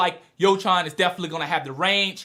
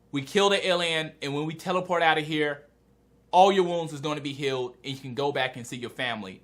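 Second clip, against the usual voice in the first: reassuring; 3 semitones lower than usual. Retold or imitated. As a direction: gently reassure someone who is hurt, voice lowered. Retold reassurance to wounded man.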